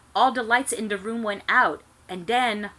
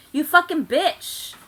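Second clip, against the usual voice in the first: high, loud, slow hammed-up scream; theatrical furious shriek; mock angry shout; 9 semitones higher, 7 dB louder, slower than usual. A narrator's reading. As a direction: overact the fury. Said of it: "I shouted angrily".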